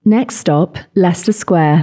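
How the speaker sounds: measured automated station announcer; Tube announcement. Shown as a demonstration. Host asks for a London Tube stop, safety announcement. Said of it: "you sound like a safety announcement".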